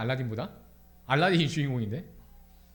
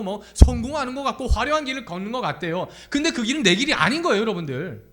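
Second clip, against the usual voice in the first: raised, driving sermon voice; insistent, animated preacher; impassioned preaching; 5 semitones higher, 5 dB louder than usual. Real, not acted. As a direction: press the point on the congregation.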